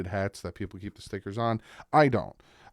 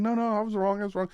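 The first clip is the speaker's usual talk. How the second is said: imitating Tyreek; 11 semitones higher, faster than usual. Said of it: "Tyreek's like".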